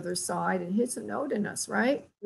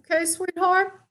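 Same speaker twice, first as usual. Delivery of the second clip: tender; 9 semitones higher, 4 dB louder than usual. Retold or imitated. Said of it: "She's getting frantic".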